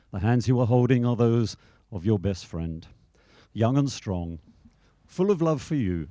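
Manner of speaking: measured ceremonial reading voice; formal reading. Acted. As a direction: read it like a wedding passage. Reading entitled Hands at wedding.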